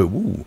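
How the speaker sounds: soft, airy "ooh"; a softened, floating "ouh". Shown as a demonstration. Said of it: "il y a un truc un peu".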